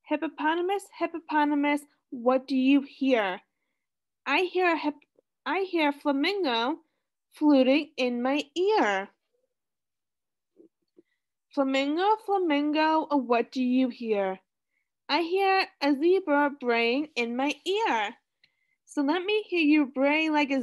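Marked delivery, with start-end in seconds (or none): 0.0-9.1 sing-song storybook reading; reading to children. Acted. Reading picture book to class. 11.5-18.2 sing-song storybook reading; reading to children. Acted. Reading picture book to class.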